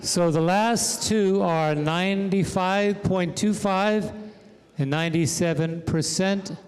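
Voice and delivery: drawn-out winner reveal; slow suspense. Real, not acted. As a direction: stretch it for suspense.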